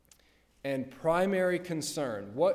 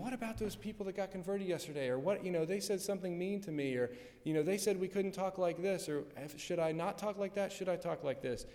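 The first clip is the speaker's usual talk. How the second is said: quick, slightly higher worried chatter; fretful questioning; 4 semitones higher, 3 dB quieter, faster than usual. Acted. Preacher imagining a persecuted believer's worries, fretful questioning. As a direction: rattle off mock worries, lightly acted.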